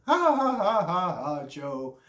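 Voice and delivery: mocking laugh, then condescending; mock press laughter. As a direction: fake hearty laugh that fades into patronizing teasing. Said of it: "I remember the press laughing".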